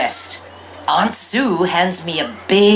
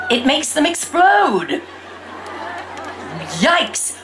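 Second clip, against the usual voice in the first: mock alarm; 6 semitones higher than usual. A narrator's reading. Shocked at exploding birds.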